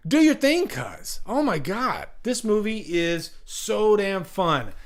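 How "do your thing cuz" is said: high, incredulous quoting of the line; excited quote. Retold or imitated. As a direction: toss the line out in mock disbelief. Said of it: "Why wouldn't you like".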